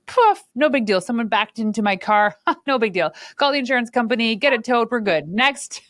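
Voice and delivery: a light, laughing, unbothered voice; breezy shrug-off. Retold or imitated. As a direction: brush it all off like nothing. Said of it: "You're like".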